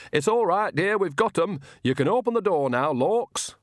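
put-on a cosy old witch calling through the door; Nanny Ogg's voice. A narrator's reading. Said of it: "Then Nanny Ogg's voice said".

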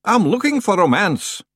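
a gruff, rumbling stranger's voice. A narrator's reading. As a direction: loom in the doorway and rumble it. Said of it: "it rumbled".

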